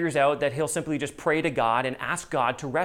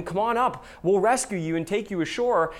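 calling from helicopter; 3 semitones higher than usual. Retold or imitated. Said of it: "calls out to him".

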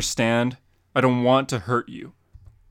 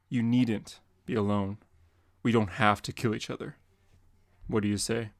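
sincere offer. Acted. Batman's offer to Joker.

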